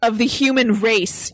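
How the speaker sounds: lightly acted slow, stern mother; stern Sarah Connor. Sarah reminding John of his destiny, stern mom. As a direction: lecture your son with measured weight. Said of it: "can I be Sarah".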